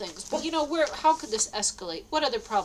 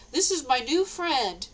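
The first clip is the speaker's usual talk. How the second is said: cheerful introduction; 4 semitones higher, 4 dB louder, slower than usual. Retold or imitated. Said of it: "she's real happy".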